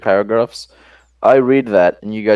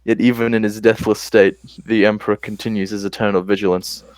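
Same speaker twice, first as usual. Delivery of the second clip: put-on solemn epic prologue in an Australian accent; dramatic Australian accent. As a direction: intone it gravely, Australian accent. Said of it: "my dramatic Australian voice".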